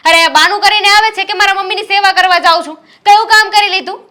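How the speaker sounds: wife scorning her sister-in-law to her husband; angry mockery. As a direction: scoff at the excuse. Wife mocking sister-in-law's excuse.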